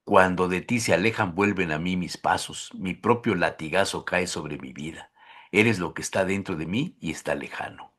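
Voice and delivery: low, soft, solemn verse reading; poem recitation. Acted. Host reads a Neruda love poem to guest, solemn recitation.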